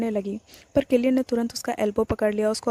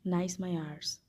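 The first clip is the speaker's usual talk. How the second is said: irritated whisper; 4 semitones lower, 10 dB quieter, slower than usual. Acted. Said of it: "irritated breath puff करके whisper किया".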